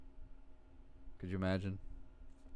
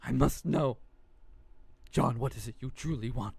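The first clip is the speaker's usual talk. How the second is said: hammed-up tearful toy rant; crying voice. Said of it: "Labubu in a crying voice".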